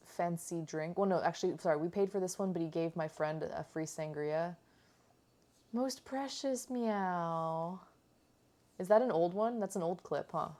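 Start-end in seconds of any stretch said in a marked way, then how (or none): 5.7-7.8 drawn-out rising meow; mock meow. Imitating the cat meowing for the camera. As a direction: mew like the cat.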